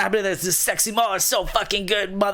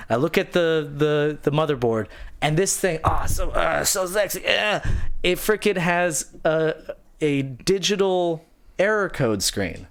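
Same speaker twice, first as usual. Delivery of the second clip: ordinary talk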